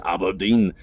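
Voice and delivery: mock Scottish "Aberdeen"; playful, hammy Scottish accent; shitty Scottish accent. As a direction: say it in a badly faked Scottish accent. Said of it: "I'm a big fan of a shitty Scottish accent".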